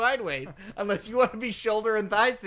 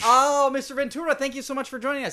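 host announcer voice; 4 semitones higher, 4 dB louder than usual. Pretend. Mock welcoming guest on show.

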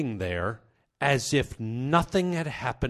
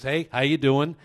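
breezy retold hello, only slightly raised; casual greeting; 3 semitones higher, 4 dB louder than usual. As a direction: toss it off as if all is normal. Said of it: "As if nothing had happened".

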